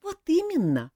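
sighing. A narrator's reading. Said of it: "вздохнул принц".

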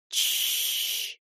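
soft whispered hush; mother hushing her crying baby; shushing. Acted. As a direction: breathe a hush over the crib.

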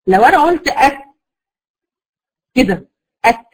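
أك stopped shut, no breath; closed kaf demo. Shown as a demonstration. Teacher showing kaf held behind its point. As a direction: trap the air behind the kaf. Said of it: "الصوت محبوس ورا المخرج".

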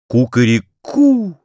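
slow crowing cry of a cardboard rooster. A narrator's reading. Rooster crowing his morning call, slow. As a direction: stretch it out like a rooster. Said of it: "закричал картонный петух".

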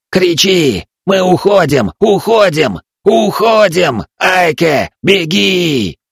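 high, loud repeated shouts; yelling. A narrator's reading. Old Kaeta yells orders at the boy, loud shouts. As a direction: keep screaming the alarm. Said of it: "заорал Каэта".

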